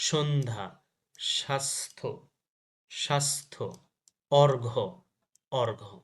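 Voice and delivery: সন্ধ্যা, স্বাস্থ্য, অর্ঘ্য with no y sound; silent য-ফলা. Shown as a demonstration. Teacher drills examples for students, silent য-ফলা in সন্ধ্যা, স্বাস্থ্য, অর্ঘ্য. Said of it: "জ ফলা এর উচ্চারণ".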